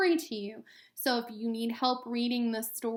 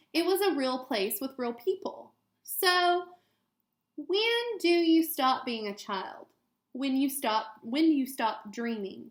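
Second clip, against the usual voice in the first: clear, gentle storybook read-aloud; reading to children. Acted. Teacher reading a picture book to students, gentle read-aloud.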